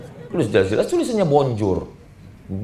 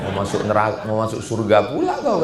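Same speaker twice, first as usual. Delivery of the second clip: mock devil; 6 semitones lower than usual. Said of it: "kata setan".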